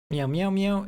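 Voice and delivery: cat meow imitation. Shown as a demonstration.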